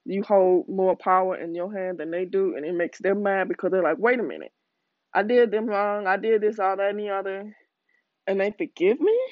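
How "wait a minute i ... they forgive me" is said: puzzled, can't-believe-it retort; mock disbelief. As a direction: imitate someone baffled at being forgiven, rising to a question. Voices baffled people who were forgiven.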